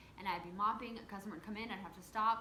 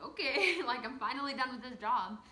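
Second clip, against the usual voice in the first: relieved laughing; 3 semitones higher, 7 dB louder than usual. Retold or imitated. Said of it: "And so I was like".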